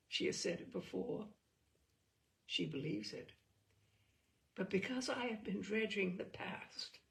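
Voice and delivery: measured, reflective literary reading; story narration. A narrator's reading. Host reading a story to listeners, reflective.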